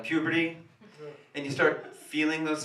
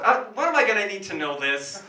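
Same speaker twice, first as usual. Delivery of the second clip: louder repeat; 6 semitones higher, 5 dB louder than usual. Acted.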